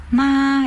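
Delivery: ma rising upward; second tone ma. Shown as a demonstration. Teacher showing students the rising second tone. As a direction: let ma climb like a question. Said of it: "entonces los alumnos cantan".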